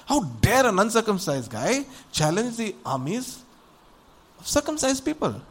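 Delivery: scandalized, high-pitched challenge; indignant outrage. Acted. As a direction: demand it as an offended champion. David outraged at Goliath's challenge.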